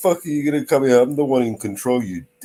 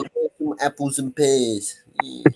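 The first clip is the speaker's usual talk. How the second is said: mock cockney accent; 3 semitones higher, 4 dB quieter, slower than usual. Mocking London cockney talk.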